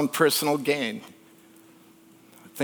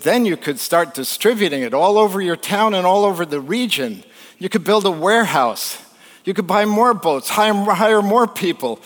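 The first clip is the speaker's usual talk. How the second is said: higher, building business pitch; eager pitch; 4 semitones higher than usual. Retold or imitated. Harvard grad selling a fisherman on expansion, eagerly. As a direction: pitch it with mounting enthusiasm.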